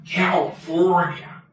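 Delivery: slow, lightly put-on Austrian accent on California; a hint of an Austrian action-star accent, drawn out on California; Arnold Schwarzenegger accent. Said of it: "or as Arnold Schwarzenegger says".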